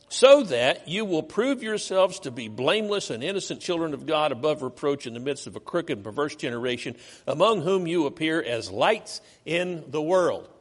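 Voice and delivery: loud, measured Bible reading; scripture reading. Acted. Preacher reads Philippians chapter two to the congregation, proclaiming. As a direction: proclaim the verses to the church.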